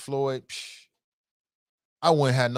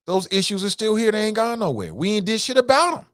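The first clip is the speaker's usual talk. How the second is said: heated rant; 9 semitones higher, 4 dB louder than usual. Real, not acted. Ranting about unresolved issues.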